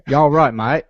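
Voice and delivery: a laughing Australian-ish "You all right, mate?"; mock Australian accent. Host laughing through an Australian-ish London greeting. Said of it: "that was, like, Australian".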